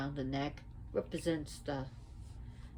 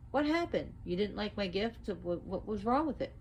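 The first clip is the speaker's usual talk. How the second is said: puzzled Chango; 4 semitones higher than usual. Acted. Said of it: "and he goes".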